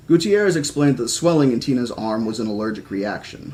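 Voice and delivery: measured audiobook-style reading; story narration. A narrator's reading. Reading a novel about an injured girl to listeners, story narration. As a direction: read the story aloud with lightly voiced dialogue.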